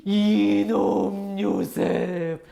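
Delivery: slow, drawn-out, loud vengeful threat; hammed-up furious older brothers; acted seething anger. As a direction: stretch every word out like a storybook villain swearing revenge. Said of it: "화와 분노가 막 불타오르기 시작했어요".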